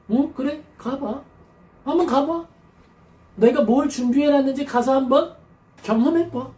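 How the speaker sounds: sly go-ahead-and-try-it tone; mock dare. God letting Israel go, a mock taunt. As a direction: dare them, half-taunting. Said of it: "이렇게 되는 거예요".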